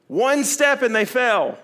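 ordinary delivery

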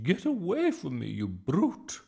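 high, loud, alarmed scolding; screech. A narrator's reading. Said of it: "she screeched".

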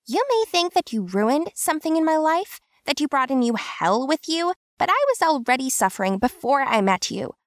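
high, fast, emotional female voice; voice cracking. A narrator's reading. Tansu insisting to Kim, voice on the edge of cracking. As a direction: hold back tears as you insist. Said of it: "Her voice cracked a little".

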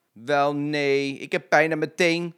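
high, loud whining lady; complaining. A narrator's reading. Lady moaning to Jetje about her toe, complaining. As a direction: whine it like a fussy customer. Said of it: "klaagde de mevrouw".

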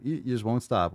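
normal talking voice

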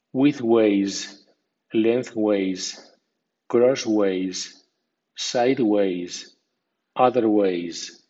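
sideways with ways given a secondary stress; medium stress on ways. Shown as a demonstration. Teacher lists ways words for learners, medium stress on ways. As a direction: say crossways with ways clear but lighter. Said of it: "con acento medio. Así".

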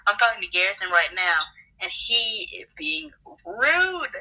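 sulky pout, dragging out the last words; put-on hurt complaint. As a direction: sulk as if nobody loves you. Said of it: "she just did the thing".

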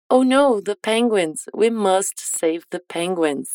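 slow, careful English model sentence; slow model line. Shown as a demonstration. Teacher models the line slowly for students to repeat. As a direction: say it slowly so students can copy. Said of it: "Repete depois de mim".

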